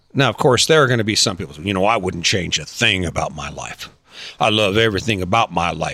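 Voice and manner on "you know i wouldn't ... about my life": pissed-off, defensive, irritated grumbling voice. Imitating people who defend their lives: imitating a grumpy voice. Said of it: "they say in a grumpy voice".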